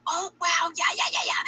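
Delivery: mock cheerful athlete, high; hammed-up happy reaction; fake excitement. Mocking a happy athlete after a bad game. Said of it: "Are they gonna be like".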